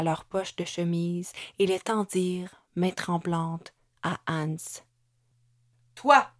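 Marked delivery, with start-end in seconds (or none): 5.9-6.3 cri aigu et très fort; interpellation criée. A narrator's reading. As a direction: pointer un homme d'un cri. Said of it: "dit Hans à un des hommes". (apostrophe criée, aiguë)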